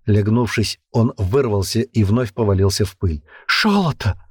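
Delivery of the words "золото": Шолото hissed high, ш for з; lisped hiss. A narrator's reading. Captive hissing at the commander, lisped Шолото. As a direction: hiss Шолото with all his strength. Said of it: "изо всех сил зашипел он".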